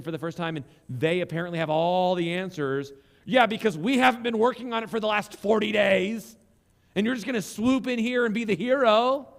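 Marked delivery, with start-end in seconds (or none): 3.2-9.3 sarcastic retort. Retold or imitated.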